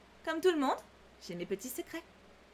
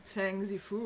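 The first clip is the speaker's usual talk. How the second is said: soft sighing delivery, quieter and lower; sighed name; 6 semitones lower, 6 dB quieter, slower than usual. Shown as a demonstration. Reading the character's lovesick sigh, sighed softly. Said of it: "Je rêve, il a soupiré".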